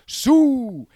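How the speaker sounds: high playground whoop; kid's celebration. Retold or imitated. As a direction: imitate a kid's drawn-out celebration cry. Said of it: "a kid running up and going".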